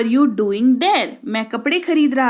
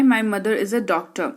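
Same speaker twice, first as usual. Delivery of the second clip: spaced out, a little lower, word by word; slow model answer; 3 semitones lower, much slower than usual. Shown as a demonstration. Teacher slowly models the answer to students. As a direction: lay it out slowly for the class. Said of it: "मेरी माँ एक doctor है".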